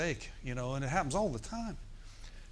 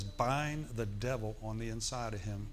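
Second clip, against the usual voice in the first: inner voice; 4 semitones lower, 6 dB quieter than usual. Retold or imitated. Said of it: "He says".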